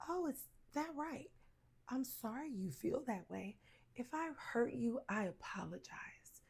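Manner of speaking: soft, sugary mock calm voice. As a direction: play it falsely calm and soothing. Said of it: "talking to you like this".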